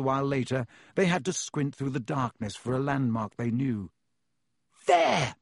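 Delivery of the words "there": high, falling shout. A narrator's reading. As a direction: shout it out in alarm. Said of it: "Harry shouted".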